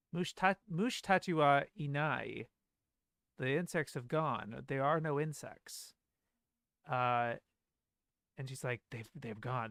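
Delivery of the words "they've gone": mock-serious tone, lower and quieter. Comparing how two versions of a line are read, imitating a serious tone. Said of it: "She has this kind of more serious tone".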